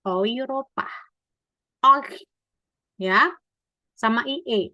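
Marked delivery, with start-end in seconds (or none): 0.1-2.2 "Europa" starting oy, then "Oi" alone; E-U read OI. Shown as a demonstration. Teacher demonstrating E U, clear oy diphthong. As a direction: glide O to I in "Europa" and "Oi". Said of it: "E U itu dibacanya O I".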